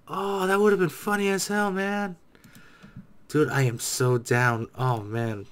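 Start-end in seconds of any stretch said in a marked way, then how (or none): none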